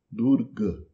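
"Durga" ending short and closed; Hindi short A. Shown as a demonstration. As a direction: cut the final A of "Durga" short. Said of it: "Um A curto e fechado". ("Durga" à moda hindi, A curto)

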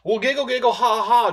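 high, mocking sing-song giggle; mock taunt. Taunting the commenter, mock giggle. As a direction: tease him like a playground kid.

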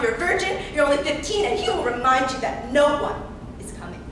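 forceful, emphatic survival instructions; urgent warning. Acted. Girl instructing another on surviving her captor, urgent warning. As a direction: drive each warning home hard.

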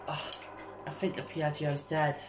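quiet, slow, resigned; defeated. Real, not acted. Player mourning his dead Piaggio, quiet and slow. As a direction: sigh it out in defeat. After sigh, giving up.

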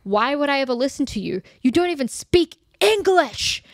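a hint of a bratty teenager, rising high; lightly voiced snotty girl; mocking teen. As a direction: sneer it like a sulky teen. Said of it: "And she says".

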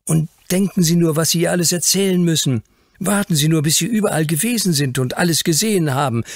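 high, eager comforting maid; reassuring. A narrator's reading. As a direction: cheer the homesick boy up, lively and quick. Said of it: "tröstete ihn Dawson".

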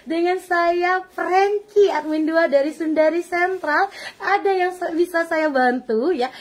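slow, sing-song polite phone voice; friendly admin. Retold or imitated. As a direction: lilt it out like a courteous admin. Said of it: "admin saya itu semuanya ramah-ramah".

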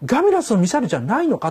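a touch of worried doubt; unsure question to a neighbour. Shown as a demonstration. Crew member anxiously asking a neighbour, unsure. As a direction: ask the person beside you, half unsure. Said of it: "思わず隣の人間に頼って聞きたくなって".

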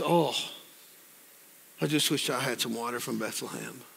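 low, soft wistful wish; quietly yearning retold quote; longing. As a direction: sigh it out softly, as if really longing. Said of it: "You ever long for something?".

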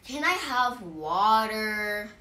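blunt, loud, drawn-out demand; slow, demanding and not nice; rude. Shown as a demonstration. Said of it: "It sounds rude. It sounds mean".

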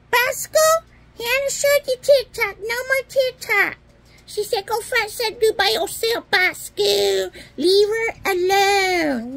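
high, loud pretend frog scolding; froggy voice. Frog toy telling Bosco off, high scolding puppet voice. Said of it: "Froggy's gonna talk for Bosco".

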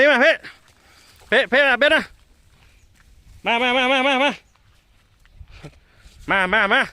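high, loud repeated command; calling out. Real, not acted. Mahout calling the plump elephant, loud call. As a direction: keep calling her in a steady chant.

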